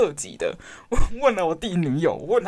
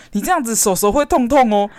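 put-on higher and louder, sweet reduplicated baby talk; cutesy baby talk; 5 semitones higher, 5 dB louder than usual. Sister imitating her brother's cutesy baby talk. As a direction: coo it like talking to a toddler. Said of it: "我弟跟我讲叠字的时候".

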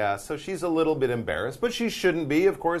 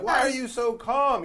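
surprised question; 12 semitones higher than usual. Pretend. Reacting to calm winner.

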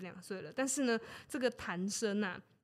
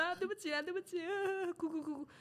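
higher whiny mock sob of an apology; fake-blubber the sorry, voice pitched up; soft, higher mock weeping, spoken more than sobbed; hammed-up crying; 8 semitones higher, 4 dB quieter, faster than usual. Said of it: "那个谭生就一直哭".

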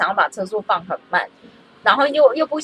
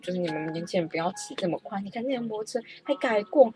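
lecturing teacher; 2 semitones higher than usual. Retold or imitated. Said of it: "然后老师就开始说".

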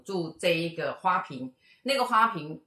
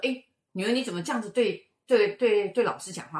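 scolding mother; 5 semitones higher, 5 dB louder than usual. Retold or imitated. Mother scolds daughter in story.

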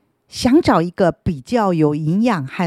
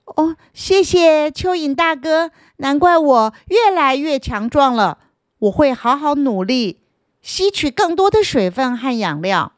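earnest root; 7 semitones higher than usual. Acted. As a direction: promise sincerely to work hard. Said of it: "树根认真地说".

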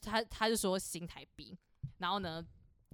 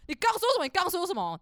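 much higher indignant repeat; challenging customer; 9 semitones higher, 4 dB louder than usual. Retold or imitated. The customer demands what she just said, high and indignant. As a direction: demand it like a man who can't believe it. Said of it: "他就说".

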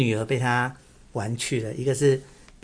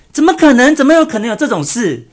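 much higher, much louder mock astonishment; feigned shock; 11 semitones higher, 11 dB louder than usual. Wang Yun fakes shock for Lü Bu, hammed-up high exclamation. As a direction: ham up a fake gasp of disbelief. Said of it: "王允就装作很惊讶".

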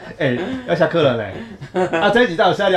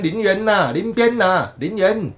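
mimicked Kaohsiung lilt; 2 semitones higher, slower than usual. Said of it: "我高中同学就每天在那边".

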